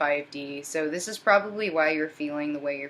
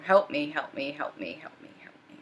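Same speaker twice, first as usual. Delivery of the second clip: begging that fades into a breathy whisper; the masculine voiced begging, trailing to a whisper; pleading fading to whisper. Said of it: "You know".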